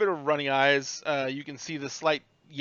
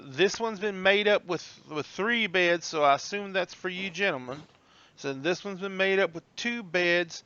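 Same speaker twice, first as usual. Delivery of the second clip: lightly voiced, higher porter; helpful old bellhop; 4 semitones higher than usual. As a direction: point out the rooms unhurriedly. Bellhop assigns the rooms.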